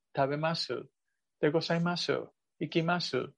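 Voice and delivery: "tabemasu", "ikimasu" with a softly swallowed final u; "-masu" verbs ending in a faint, eaten u. Shown as a demonstration. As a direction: drop the last u of each "-masu" almost to nothing. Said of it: "así como tragada".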